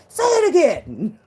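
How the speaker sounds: high, slow, laughing "Say it again"; giddy laughing plea. Retold or imitated. A girlfriend begging the boyfriend again, laughing. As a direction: beg him through laughter.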